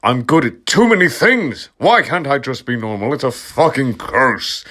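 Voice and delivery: shout. Acted. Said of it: "I shouted".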